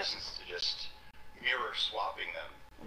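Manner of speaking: glitchy delayed stream audio; broken livestream sound; corrupted glitchy audio. Real, not acted. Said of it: "And the audio's messed up".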